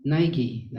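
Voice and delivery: Nighy said "NYE-ghee", with a hard g; tried-out pronunciation. Shown as a demonstration. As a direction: sound out Nighy as two syllables, "NYE-ghee". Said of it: "That's how they pronounce it".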